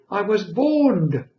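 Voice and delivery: put-on high, loud, slow baby voice. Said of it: "I remember the word, borned".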